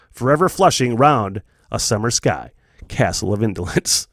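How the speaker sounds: steady storybook read-aloud, unhurried and even; first reading voice. Shown as a demonstration. Podcaster previewing his Halloween live reading, plain storybook narration. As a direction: read the opening like a classic tale for an audience. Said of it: "I'm gonna read it in the two accents".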